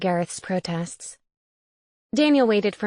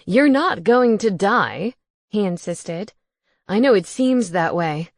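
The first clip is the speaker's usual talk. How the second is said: ghost roommate voice; 2 semitones higher, 5 dB louder than usual. Acted. Gareth reassuring.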